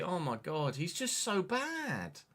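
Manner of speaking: slow, drawn-out exasperated complaint; despairing groan. Real, not acted. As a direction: drag it out in despair at the player. Despairing at his player.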